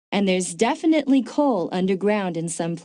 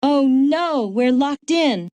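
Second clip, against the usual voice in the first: dismayed; 4 semitones higher, 4 dB louder, slower than usual. Acted. Finds they are locked in.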